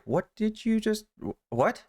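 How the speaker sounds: stammering, baffled husband impression; mock confusion. Husband hears dog called his name, confused. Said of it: "her husband looks all confused".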